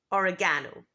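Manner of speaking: oregano stressed on the third syllable, or-e-GAH-no; British oregano. Shown as a demonstration. Teacher models British oregano. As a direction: lean on the GA in oregano. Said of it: "stress is on the third syllable".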